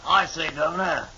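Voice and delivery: put-on British accent. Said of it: "not Governor".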